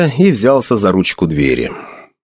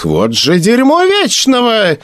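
dismayed curse; 12 semitones higher than usual. Acted. Magrad's dismay at the roll.

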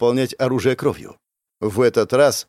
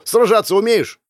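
high, raised urgent question; narrated shout, pitched up; yelling; 9 semitones higher, 4 dB louder than usual. A narrator's reading. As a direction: demand an answer urgently. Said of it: "ору ему".

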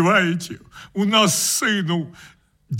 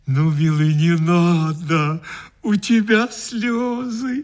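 нежно. Acted. Утешает плачущего.

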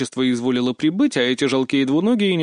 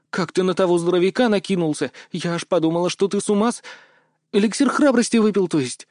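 put-on higher girlish voice, teasing and bossy; lightly voiced girl, playful; 6 semitones higher than usual. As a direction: tease him like a cheeky friend. Mia's voice held. (слегка девичьим голосом, шутливо)

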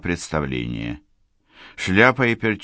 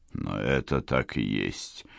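much softer, lower, slow dull voice; muffled; 9 semitones lower, 9 dB quieter, slower than usual. Acted. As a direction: say it hollowly, turning away. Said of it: "глухо проговорил полковник".

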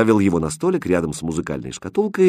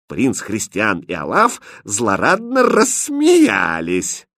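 ordinary delivery, nothing marked

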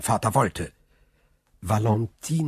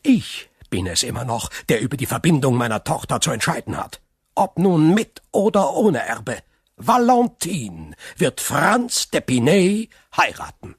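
cold and fast, then higher and louder on the last lines; a father's icy command turning sharp; 5 semitones higher, 4 dB louder than usual. Acted. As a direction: lay down the law, icy at first, then forceful. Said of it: "mit eisiger Stimme".

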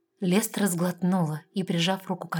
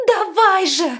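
loud, high desperate yell; shout; 13 semitones higher, 11 dB louder, slower than usual. A narrator's reading. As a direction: yell at her to get on with it. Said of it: "закричала Лестра". (отчаянный крик)

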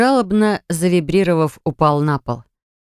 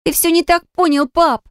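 much higher, pleading cry; girl begging her father to understand; desperate daughter; 12 semitones higher than usual. Acted. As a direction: cry it out to him.

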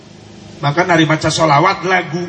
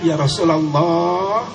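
tearful plea; 3 semitones higher than usual. Shown as a demonstration. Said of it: "Coba lagunya sentuhkan ke hati kita".

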